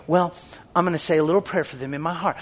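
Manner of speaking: mock timid believer. Preacher mocks a believer who only prays silently. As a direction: brush it off meekly. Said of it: "look at them and go".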